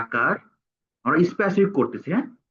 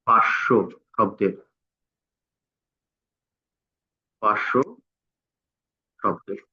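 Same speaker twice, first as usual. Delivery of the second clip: slow dictation; 5 semitones lower than usual. Shown as a demonstration. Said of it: "পাঁচশো শব্দের লিখে দিবে আমাকে".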